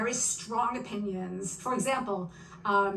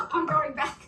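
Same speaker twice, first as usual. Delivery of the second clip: laughing lament; 4 semitones higher than usual. Retold or imitated. Mock despair, laughing.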